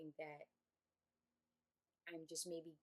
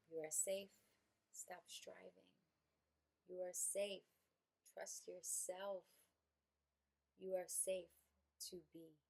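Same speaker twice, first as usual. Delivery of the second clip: calm, spaced-out affirmations; gentle affirmation. Acted. Guided affirmation.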